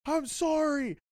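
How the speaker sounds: very high-pitched imitation of an apology; mock apologetic driver. Cyclist imitates the driver looking back at him, high mock apology. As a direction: squeak it out as the sorry driver. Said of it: "he's, like, looking back at me and he's like".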